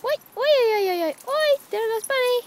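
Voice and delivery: high, loud gleeful chant; bright excited pet-talk call. Real, not acted. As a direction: cheer the bunny on as it dashes. Excited calling as bunny runs.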